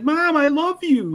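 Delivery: high, slow pleading mock whine; hammed-up needy son, drawn out; whiny Baki. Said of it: "And he's like".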